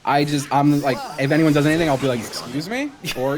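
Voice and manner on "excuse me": polite little question with an edge; softly pointed, passive-aggressive query. Acted. Driver complaining to nobody in the car, passive-aggressive. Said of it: "I have the most passive-aggressive".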